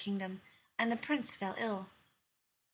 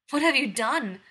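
loud, sharp demand, higher; angry demand; 4 semitones higher, 11 dB louder than usual. Acted. Huntress confronting the queen over the princess, loud angry demand. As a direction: demand an answer, outraged. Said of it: "the huntress demanded".

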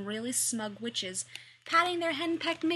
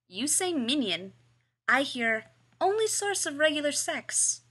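drawl; 5 semitones higher, 4 dB louder than usual. Acted. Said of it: "Hikaru drawls".

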